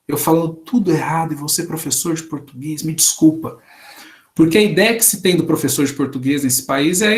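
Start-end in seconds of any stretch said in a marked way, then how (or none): 0.1-3.6 apologetic stranger. Retold or imitated. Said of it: "Teve gente que já pediu perdão".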